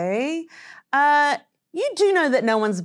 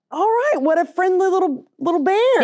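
put-on cooing baby talk; 4 semitones higher than usual. Cooing at a bear.

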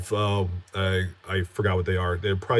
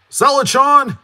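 excited cheer; 5 dB louder than usual. Real, not acted. Cheering on a viewer.

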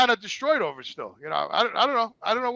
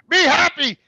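high, loud mock yell of Be happy; imitating his ex yelling from the car; shouted farewell; 9 semitones higher, 7 dB louder, slower than usual. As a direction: call it out the car window, mocking her.

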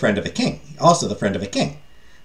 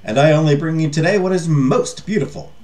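lightly voiced eager merchant, pitched up; flattering merchant; 4 semitones higher than usual. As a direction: reassure the king like a salesman.

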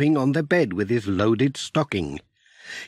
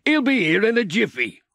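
higher, brisk helpful friend voice; friendly neighbour promising quick help, higher voice; helpful Sam; 7 semitones higher than usual. Acted. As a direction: sound like a cheerful van driver offering help. Narrator voices Sam helping Pat.

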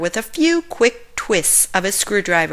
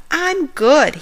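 smiling; 7 semitones higher than usual. A narrator's reading. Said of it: "he announced with a smile".

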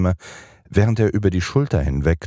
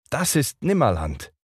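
put-on a touch of pride in a higher boyish voice; proud; 9 semitones higher than usual. A narrator's reading. Peter proudly shows the children Neverland, higher voice. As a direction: announce it proudly. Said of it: "rief Peter stolz".

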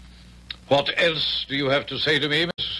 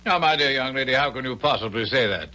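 put-on stage English accent; faster than usual. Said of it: "but it's a stage accent".

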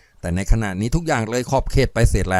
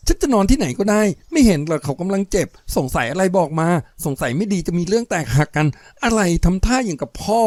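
higher, forced indignant snap; trying to sound fierce; 6 semitones higher than usual. Acted. Jaem pushing back at her suspicious lover, forced fierce tone. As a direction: put on a stern front she doesn't quite have. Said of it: "แจ่มพยายามทำเสียงเขียวขึ้นมา".

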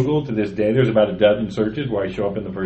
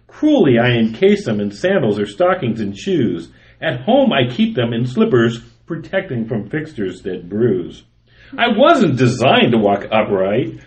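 poem reading; 3 semitones higher than usual. Acted. Reading his humorous poem to podcast co-hosts, performed reading. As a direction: read it out with a bouncing meter, savoring the jokes.

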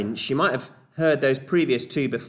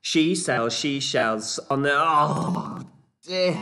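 1 fast attempt fumbling; 3 semitones higher, slower than usual. Shown as a demonstration. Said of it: "see how quickly you can do it".

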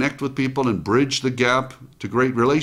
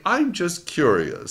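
relaxed curiosity; 5 semitones higher, slower than usual. Retold or imitated. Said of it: "which was so relaxed".

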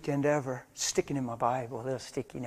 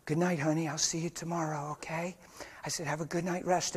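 softer, sweet goodnight; sweetly; 6 dB quieter than usual. Retold or imitated. A hint of a father saying goodnight sweetly to his daughter, softer. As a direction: tuck her in with your voice. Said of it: "sweetly looking at her and saying".

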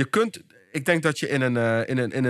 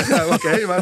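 laughing yes; 4 semitones higher, 7 dB louder than usual. Real, not acted. Laughs after being caught out.

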